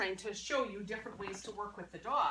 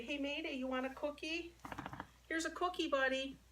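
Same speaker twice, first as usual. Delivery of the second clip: sweet offer; 6 semitones higher, 4 dB quieter than usual. Shown as a demonstration. Demonstrates offering dog a treat.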